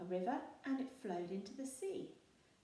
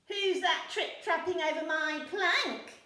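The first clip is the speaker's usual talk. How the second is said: loud, higher mocking pirate; jeering; 9 semitones higher, 12 dB louder than usual. A narrator's reading. Handkerchief taunts troll on plank, jeering. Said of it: "jeered Handkerchief".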